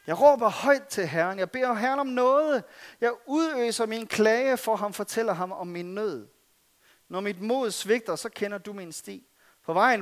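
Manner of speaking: earnest scripture reading, rising and falling with the plea; psalm reading. Acted. Preacher reads David's cave psalm to the congregation, earnest reading. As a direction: read the psalm as a cry for help.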